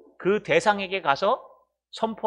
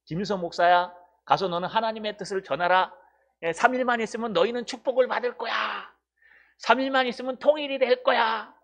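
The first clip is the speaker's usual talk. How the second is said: raised, bright-sounding preacher proclaiming good news; mock happy prophecy; 4 semitones higher than usual. Pastor mimics a prophet promising Seoul blessings, raised mock proclaiming. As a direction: play a crowd-pleasing prophet promising blessings. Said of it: "막 이런 거 선포하라고".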